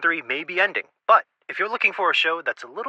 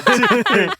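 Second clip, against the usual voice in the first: squeaky count-in; 6 dB louder than usual. Pretend. Counting in the song.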